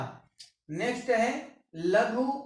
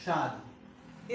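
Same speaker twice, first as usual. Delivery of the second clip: slow demo; 6 semitones lower, 7 dB quieter, much slower than usual. Shown as a demonstration. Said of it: "इस तरीके से लिखा जाएगा।".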